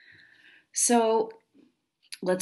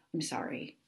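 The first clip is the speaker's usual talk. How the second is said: sheepish whispered sorry; whispered apology; 2 semitones lower, 9 dB quieter than usual. Real, not acted. Host apologizing to confused listeners in a sheepish whisper. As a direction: murmur it under your breath.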